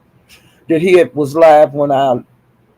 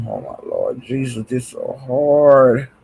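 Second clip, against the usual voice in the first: weary exasperation; 2 semitones lower than usual. Real, not acted. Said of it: "I can't do this shit no more".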